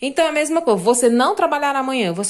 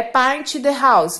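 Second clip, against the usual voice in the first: slow dictation; 3 dB louder, much slower than usual. Shown as a demonstration. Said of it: "teacher dictating example sentence".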